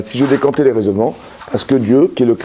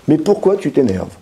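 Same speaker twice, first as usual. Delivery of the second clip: gentle question. Retold or imitated. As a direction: ask kindly, really wanting to know. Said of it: "Hachem s'adresse à la vraie personne".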